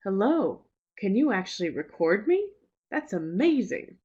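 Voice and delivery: bright demo sentence with a rising "me"; demo recording. Shown as a demonstration. Teacher replays her recorded intonation sample. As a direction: read it as a pitch-tracking sample. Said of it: "I recorded myself saying".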